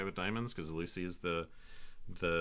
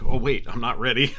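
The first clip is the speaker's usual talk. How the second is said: startled; 6 semitones higher, 15 dB louder than usual. Retold or imitated. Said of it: "I was like".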